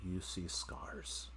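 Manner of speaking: game master scene setting. Acted. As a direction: let each image hang before the next.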